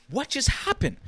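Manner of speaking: high-pitched retold disbelief; freaking out. Fan reliving meeting his favourite rapper, freaking out. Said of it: "And I'm freaking out".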